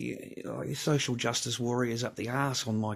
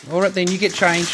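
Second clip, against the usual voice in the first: calling out; 9 semitones higher, 13 dB louder than usual. Real, not acted. Calling to child.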